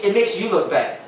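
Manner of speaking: chuckling through the words; laughing. Real, not acted. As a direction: laugh while you explain. Laughing while explaining bad pad holding.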